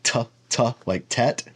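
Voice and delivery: "t, t" as crisp aspirated stops; the hard T sound, clipped and puffed; hard t demo. Shown as a demonstration. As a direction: tap out a sharp hard "t" twice. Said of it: "pronounced as a hard tau".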